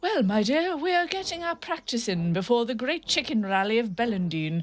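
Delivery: a hearty father explaining his hobby; jolly father. Acted. Father voiced.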